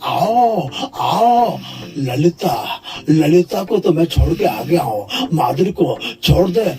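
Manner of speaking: a hint of sleazy Shakti Kapoor calling "aao"; lightly voiced leering villain; Shakti Kapoor impression. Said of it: "Shakti Kapoor.". (Shakti Kapoor की हल्की नकल)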